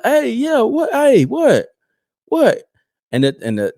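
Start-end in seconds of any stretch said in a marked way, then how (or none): 0.0-2.6 high-pitched yelps of a startled man; startled man impression. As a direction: mimic a man caught off guard, pitch shooting up. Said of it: "a man. He was like".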